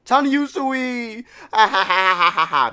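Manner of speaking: high, loud cry then cackle; forced laughter. Acted. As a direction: laugh it out against the grief. Voicing forced laughing mourners.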